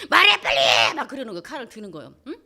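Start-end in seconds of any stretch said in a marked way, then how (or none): 0.1-0.9 much lower, much louder snarling demand; knife-wielding husband turns beastly, roaring at his wife. Retold or imitated. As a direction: growl like a beast. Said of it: "얼굴이 막 짐승같이 변하면서".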